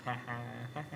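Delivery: soft mock laugh; quiet imitation of a mother chuckling; imitated mom's laugh. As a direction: fake a little spelt-out ha-ha. Imitates his mom laughing at him.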